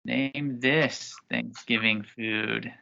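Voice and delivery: slow, deliberate quiz question; game show host. Acted.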